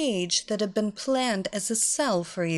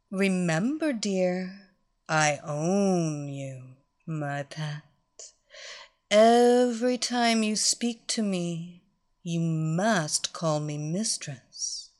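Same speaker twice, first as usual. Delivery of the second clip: stern mistress; 2 semitones lower, slower than usual. Acted. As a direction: lay down the rule slowly. Mistress lays down rules.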